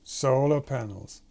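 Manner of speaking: SOLAR drawn out, then dropping through panels; slow, weighted SOLAR panels going down; falling emphasis. Retold or imitated. Animator echoes the played clip, falling emphasis on SOLAR. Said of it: "Again, goes down".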